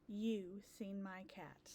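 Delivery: breathy storytime whisper. Shown as a demonstration. Teacher reading refrain to kids, whispering. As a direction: hush it like a secret.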